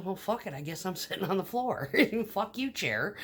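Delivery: laughing through a mock curse at the chair. Telling off the chair that broke, laughing. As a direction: giggle out the cuss words.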